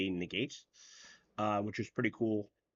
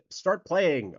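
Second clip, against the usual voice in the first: loud, higher, drawn-out command; exasperated call-out; 7 semitones higher, 6 dB louder than usual. Real, not acted. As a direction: urge the players on, raised and slow. Urging players to begin.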